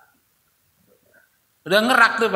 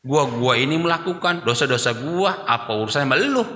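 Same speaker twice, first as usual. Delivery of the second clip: defiant retort; 4 semitones lower than usual. Retold or imitated. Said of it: "Ngomongnya begitu kadang-kadang".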